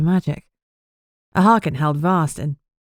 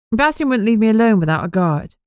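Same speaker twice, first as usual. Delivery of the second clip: annoyed Amber; 6 semitones higher, 3 dB louder than usual. Acted. Amber complaining about guard.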